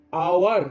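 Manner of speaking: আওয়ার opening on an open "aa" vowel; আওয়ার begun straight on আ, set apart; starts with আ. Shown as a demonstration. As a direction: say আওয়ার with no h at the front. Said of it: "আ দিয়ে শুরু হচ্ছে".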